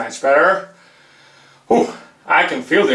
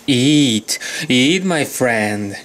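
sinister villain. Acted. Villain taunting his victim with a slow menace. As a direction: gloat over the doomed victim.

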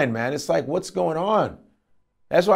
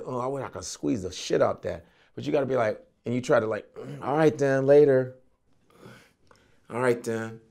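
softer, lower, held-back voice; mock restrained mutter; 3 semitones lower, 5 dB quieter than usual. Comedian acting a guy hiding his lust, soft held-back. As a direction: keep it low and suppressed.

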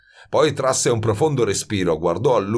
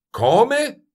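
sharply rising, high exclamation; high-pitched cry; 4 dB louder than usual. A narrator's reading. Baldini to Grenouille who wants to mix, crying out. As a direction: cry out in disbelief, pitch shooting up. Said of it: "Gridò Baldini in tono piuttosto alto".

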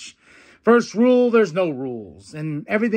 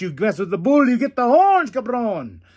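louder, higher wrestler taunt; hyped catchphrase; 6 semitones higher, 6 dB louder than usual. Retold or imitated. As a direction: bark it like a fired-up heel. Quoting Rush's catchphrase.

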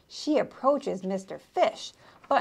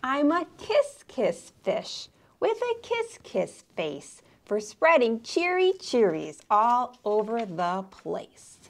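cheery refrain; 3 semitones higher than usual. Acted. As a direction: sing out the cheer.

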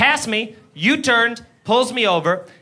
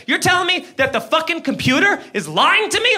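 mock screaming cop; 6 semitones higher than usual. Cop accusing driver of lying, mock outrage. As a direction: mimic an outraged cop without truly shouting. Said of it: "he starts screaming at me".

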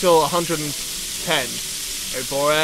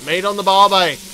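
badly faked Australian barbecue host; terrible Australian accent; 3 semitones lower than usual. Gamer calling for meat on the barbie, bad Australian accent. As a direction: stretch it into a poor Australian twang. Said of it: "do an Australian accent again. That was terrible".

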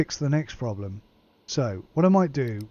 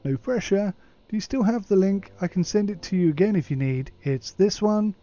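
higher, put-on wheedling client voice; emailing client; 5 semitones higher than usual. Client asking the technician to sign up, higher voice. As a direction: nudge them politely, pitched up.

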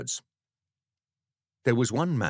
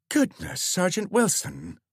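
higher, louder village woman's exclamation; higher nosy neighbour exclaiming; Dorothy exclaiming; 12 semitones higher, 4 dB louder, slower than usual. Acted. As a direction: gasp at the scene as you arrive. Dorothy arriving, curious.

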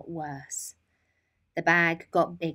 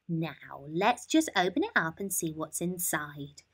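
put-on kindly old lady. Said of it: "said the old lady".

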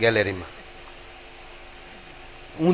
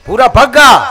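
a louder, higher snapped name, half comic; irritated shout; 7 semitones higher, 9 dB louder than usual. Retold or imitated. Bhuro, fed up, snaps his name at the foreigner. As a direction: bark your name back at the pestering foreigner. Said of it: "ભૂરો ખીજાઈને બોલ્યો".

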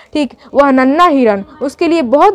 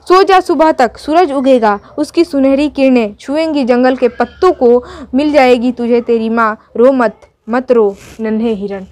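poem recitation. Acted. Teacher recites lullaby poem.

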